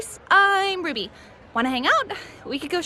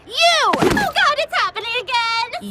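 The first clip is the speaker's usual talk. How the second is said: panicked; 7 semitones higher, 5 dB louder than usual. Acted. Panics about to sneeze again.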